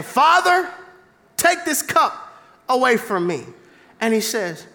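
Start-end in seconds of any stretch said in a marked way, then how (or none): 0.0-3.5 pleading prayer. Retold or imitated. Believer begging God to take the cup away, pleading. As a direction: cry out higher, pleading. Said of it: "when you're saying".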